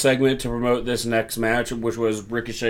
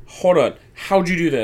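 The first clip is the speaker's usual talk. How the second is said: a touch higher, mock-astonished; amazed question; 6 semitones higher, 3 dB louder than usual. Fan in disbelief at a wrestler's move, mildly hammed-up. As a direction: play a baffled fan asking how he did it. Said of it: "And you're like".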